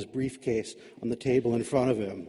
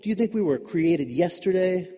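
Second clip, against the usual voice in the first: angry accusation; 4 semitones higher, 3 dB louder than usual. Acted. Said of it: "Adam's anger overcame his fear".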